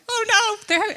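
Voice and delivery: high, loud comic alarm; hammed-up fear of missing out; mock dismay. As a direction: wail it in playful panic. Acted reaction to teasing about FOMO.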